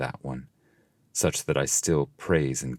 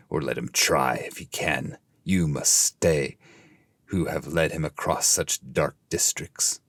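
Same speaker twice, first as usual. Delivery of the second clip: disdainful. Acted. The fallen ones dismiss the intruder with mild disdain. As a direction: look down on them as you speak. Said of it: "their great disdain".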